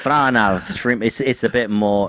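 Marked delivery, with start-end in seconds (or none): 0.0-1.0 broad put-on Australian accent. Shown as a demonstration. Showing how Australian differs from New Zealand, Australian accent. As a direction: put on a harsher Australian twang. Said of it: "the Australian accent".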